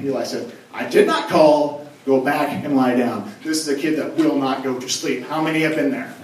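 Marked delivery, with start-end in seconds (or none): 0.7-3.3 slow, weary insistence; mildly exasperated. Acted. Old Eli sending the boy back, a touch weary. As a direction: spell it out slowly like a tired parent. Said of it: "a change in mood whenever it comes to Eli".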